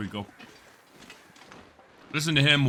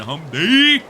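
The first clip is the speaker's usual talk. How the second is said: mock brain voice; 4 semitones higher, 9 dB louder than usual. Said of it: "my dumbass brain went".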